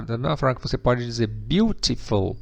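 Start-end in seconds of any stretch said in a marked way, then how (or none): 1.3-2.4 BEAUTIFUL as BYOO-tih-full with a crisp T; pronounced T. Shown as a demonstration. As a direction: sound a true T in BEAUTIFUL. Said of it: "Você tem duas pronúncias também". (beautiful com T pronunciado, "biútiful")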